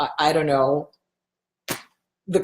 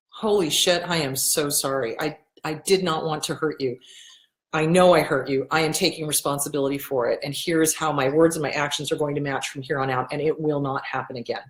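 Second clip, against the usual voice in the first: sincere apology; 4 semitones lower than usual. Shown as a demonstration. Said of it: "An apology is a thought out, heartfelt".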